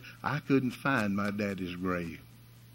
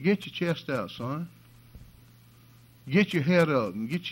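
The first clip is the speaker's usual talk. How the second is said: higher, rousing call to stand tall; rallying pallbearers; 5 semitones higher than usual. Retold or imitated. Preacher urges sad pallbearers to cheer up, rousing and higher. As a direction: lift their heads up with your voice.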